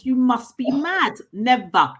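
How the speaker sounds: firm playful no; refusing. Retold or imitated. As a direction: flatly refuse her, loud. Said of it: "I said".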